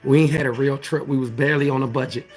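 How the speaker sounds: low wrap-up delivery; sermon closeout voice. Shown as a demonstration. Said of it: "Let me get my closeout voice going".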